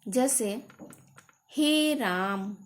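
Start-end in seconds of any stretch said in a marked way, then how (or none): 1.5-2.6 हे राम with the final आ of राम held long and slow, like calling out; pluta vowel call. Shown as a demonstration. Teacher demonstrating a pluta vowel to students, slow drawn-out call. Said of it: "इस पे हम लोग जोर दे रहे हैं".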